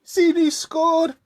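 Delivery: high, loud, drawn-out cry of a goal; real football fan's yell; excited goal shout. Real, not acted. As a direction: blurt out the score in real excitement. Football goal interrupts the chat.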